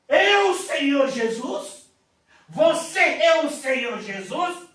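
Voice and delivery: loud, high amazed question; astonished loud question; awed cry. Retold or imitated. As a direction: call out in wonder. Awestruck question in vision.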